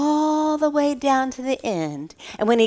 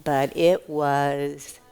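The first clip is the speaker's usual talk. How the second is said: very slow, sinking into a whisper; slow down and breathe the last word; hushed emphasis; 7 semitones lower, 6 dB quieter, slower than usual. Acted. Teacher giving children the moral, slow and whispered.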